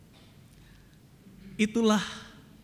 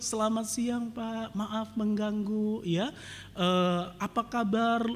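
softer, slow, syrupy phone greeting; sweet sales voice; 5 semitones higher, 3 dB quieter, slower than usual. Retold or imitated. Bank customer service caller greeting the pastor, softly and sweetly. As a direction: coo it like a bank telemarketer. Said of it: "ramah sekali".

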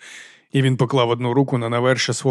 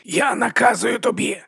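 slow, higher strained order; hoarse command; 9 semitones higher, slower than usual. A narrator's reading. Half-strangled monk ordering the sorcerer, slow strained command. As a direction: force the order out slowly. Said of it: "прохрипів брат Діас".

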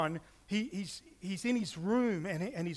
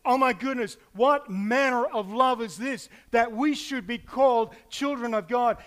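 louder and higher, amazed wonder; John marvelling at God's love while writing, awed and louder; awed exclamation; 5 semitones higher, 8 dB louder than usual. Retold or imitated. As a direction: burst out in amazement. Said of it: "he pushes away from the table".

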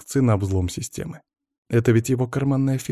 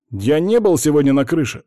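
indignant denial, higher and louder; 6 semitones higher, 6 dB louder than usual. A narrator's reading. Accused sysadmin protests to the investigator, indignant and loud. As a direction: bristle at the accusation. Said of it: "возмутился Волков".

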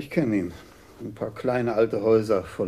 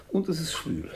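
whisper; 5 semitones higher, 4 dB quieter than usual. Acted. Commissaris remarks on sultry weather.

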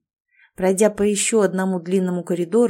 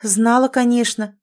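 flaring up, slightly louder; irritated snap; 3 semitones higher, 3 dB louder than usual. Acted. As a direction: snap back, annoyed. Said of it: "вспылила она".

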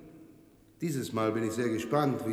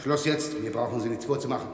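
curt rebuke; 4 dB louder than usual. Acted. Cortez cuts off the excuse.

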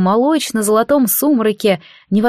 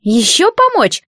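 indignant; 6 semitones higher, slower than usual. A narrator's reading. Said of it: "возмутился конюшонок".

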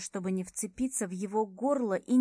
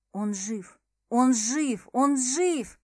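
growing disbelief; 3 semitones higher, 6 dB louder, slower than usual. Real, not acted. Heroine learns Ares is alive.

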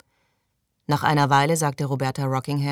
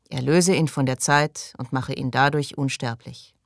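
group prayer response. Acted. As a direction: repeat the prayer after the leader. Group repeats the prayer line. (gleichmäßig nachbetend)

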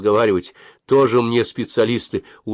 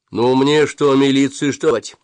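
offended; 6 semitones higher, 7 dB louder than usual. A narrator's reading. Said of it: "спросил офицер обиженно".

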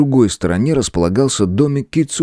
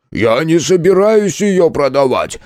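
attempted exclamation; 8 semitones higher, slower than usual. A narrator's reading. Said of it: "попытался воскликнуть тот".

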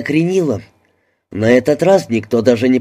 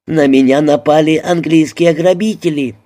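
higher-pitched, indignant alarm; alarmed cry; 5 semitones higher, 3 dB louder than usual. A narrator's reading. Frenchwoman thinks English robbers attacked her, alarmed cry. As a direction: call out in moderate panic.

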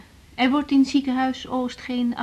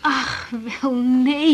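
tearful; much slower than usual. Acted. Crying disbelief.

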